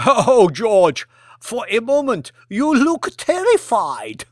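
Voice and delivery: mock him through laughter; laughing. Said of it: "guffawing with deep laughter".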